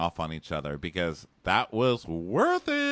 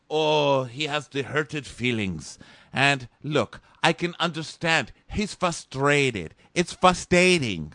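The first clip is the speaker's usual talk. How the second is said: mock Robert; 4 semitones higher, slower than usual. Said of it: "So Robert's like".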